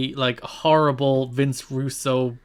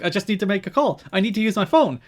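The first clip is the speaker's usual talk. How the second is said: mild mock shout; 6 semitones higher than usual. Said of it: "She starts shouting at him".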